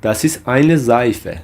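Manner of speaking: slow, measured German for learners; slow model phrase. Shown as a demonstration. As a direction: model the phrase slowly, word by word. Teacher models German example sentence.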